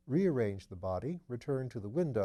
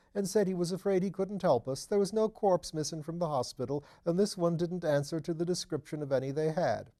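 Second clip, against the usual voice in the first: higher, louder fussy little man; a nervous, eager tenant chattering away; Mr Thipps; 7 semitones higher, 5 dB louder than usual. Acted. Narrator voicing Thipps, higher and fussy.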